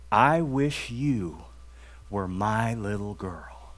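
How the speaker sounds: slow, gentle, soft-spoken wish, not a true whisper; hushed teacher speaking tenderly. Retold or imitated. Teacher quietly telling the girl she wishes she were hers, hushed and slow. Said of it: "said in her whisper".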